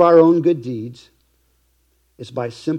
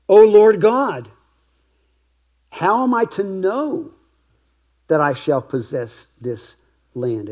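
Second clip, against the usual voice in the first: pleading Abram; 4 semitones higher, slower than usual. Acted. Abram's wondering question to God.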